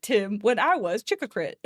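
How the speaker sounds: put-on garbled kid speech reading; childish mispronouncing voice. Shown as a demonstration. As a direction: read it like a small kid. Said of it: "somebody reading what a kid wrote".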